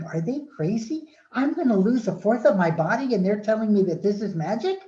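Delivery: high-pitched, disbelieving inner protest; incredulous. Retold or imitated. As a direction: rise into an indignant question. Incredulous thought at friends' advice.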